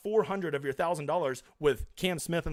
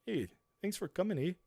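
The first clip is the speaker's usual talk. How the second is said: put-on, higher Canadian lilt; tentative mock Canadian voice; attempted Canadian accent; 3 semitones higher, 4 dB quieter than usual. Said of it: "I don't have a Canadian voice".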